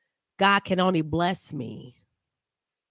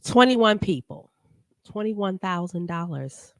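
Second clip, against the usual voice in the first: louder, punchy echo of the preacher's call, Twenty-one people; mock preacher call; 4 dB louder than usual. Vlogger mocks the preacher's call to the congregation, louder and punchy. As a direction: boom it out like a preacher from the pulpit.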